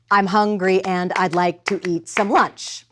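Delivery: "I'm hungry and I'd like" in a measured da-DUM beat; iambic pentameter. Shown as a demonstration. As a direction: stress HUN, AND, LIKE, EAT, LUNCH in "I'm hungry and I'd like to eat some lunch". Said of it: "That's iambic pentameter".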